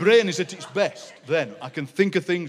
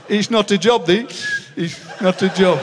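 half-laughing workmate complaint; lightly voiced grumbling workmate; imitating Alan; 4 semitones higher, slower than usual. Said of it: "he said".

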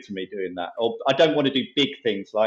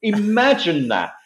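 high, slow, drawn-out smug voice; hammed-up smug imitation, much higher and slow; smug pundit; 7 semitones higher, slower than usual. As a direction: stretch it out like a self-satisfied panellist. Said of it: "going on Question Time and going".

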